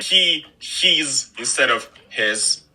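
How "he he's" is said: "he's" with a long ee; mispronounced vowel. Shown as a demonstration. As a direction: stretch "he's" slowly with a long ee. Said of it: "occasionally I would say something like".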